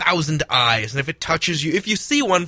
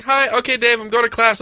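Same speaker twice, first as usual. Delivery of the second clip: high, raised voice; mock yelled goodbye; 9 semitones higher, 5 dB louder than usual. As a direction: call out a farewell, hammed up. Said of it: "And you're like".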